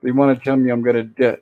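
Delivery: "di-" broken off before the word is finished; last word cut off. Retold or imitated. Retelling a character's fear she is dying, "di-" cut off. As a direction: stop short on "di-", leaving the word unsaid. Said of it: "now, she doesn't say die".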